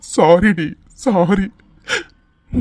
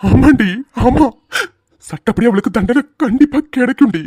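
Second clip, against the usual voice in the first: crying agreement; 4 semitones higher than usual. Acted. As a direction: agree while weeping.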